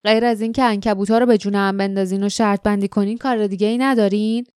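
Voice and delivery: fast, contemptuous question; with hatred. Acted. Jasmine scorns the men's spider betting with quick contempt. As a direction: spit the question out with disgust, quickly. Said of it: "جاسمین با نفرت پرسید".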